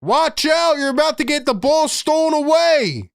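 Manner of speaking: loud mock call to a teammate; imitated shout. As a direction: shout it like a teammate calling out danger. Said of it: "I need somebody to step up and be like".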